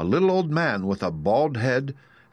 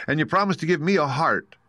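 higher, plaintive Tin Woodman; 8 semitones higher than usual. Acted. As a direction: plead like a tin man.

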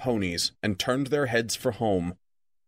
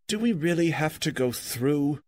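groaning; 4 semitones higher than usual. Acted. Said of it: "groaned the hobbit".

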